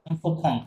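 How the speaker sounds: অন্থ ফং as two joined parts; model pronunciation. Shown as a demonstration. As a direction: demonstrate অন্থ ফং for a learner. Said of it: "এটার উচ্চারণ হচ্ছে entreprendre".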